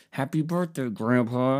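mildly hammed-up phone greeting; retold birthday greeting. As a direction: imitate a dutiful grandson's greeting. Retells his birthday call to grandpa.

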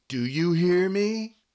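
high, loud hammed-up bellow; over-the-top shouted demand; mock commanding shout. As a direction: bark the order like a drill sergeant. Commanding dirty girl, acted scene.

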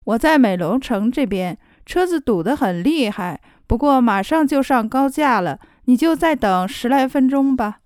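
slow. Shown as a demonstration.

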